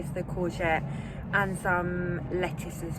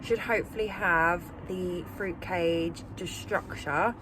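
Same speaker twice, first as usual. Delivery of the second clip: confident; slower than usual. Real, not acted. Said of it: "she says, very confidently".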